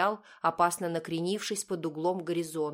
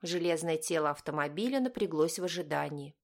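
ordinary delivery

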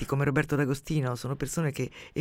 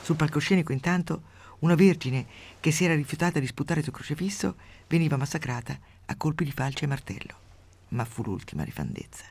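steady storyteller's reading voice; measured radio story reading; story narration. A narrator's reading. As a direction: read the tale out with dry relish. Reads a grotesque story aloud.

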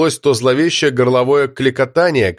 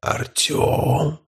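eerie voiceless rasping call; inhuman voice; 7 dB quieter than usual. Acted. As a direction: call the name like a lurking monster. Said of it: "нечеловеческий голос, срывающийся в жутковатый клёкот". (нечеловеческий голос с клёкотом)

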